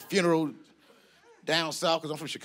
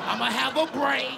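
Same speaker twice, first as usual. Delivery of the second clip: high, showy boast; hammed-up proud announcement; mock bragging; 8 semitones higher than usual. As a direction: brag it in a raised pitch. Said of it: "you bragging about regular shit".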